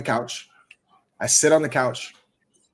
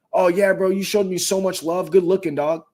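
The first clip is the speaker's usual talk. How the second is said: grateful buddies; 5 semitones higher than usual. Retold or imitated. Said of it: "every one of them".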